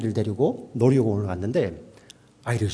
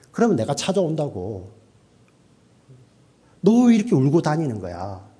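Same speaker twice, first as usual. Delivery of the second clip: 목소리 커진 아버지; 3 semitones higher than usual. Acted. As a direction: scold a lost child like a worked-up dad. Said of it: "우리 아버지들도 목소리 커지잖아요". (아이를 야단치는 아버지 흉내)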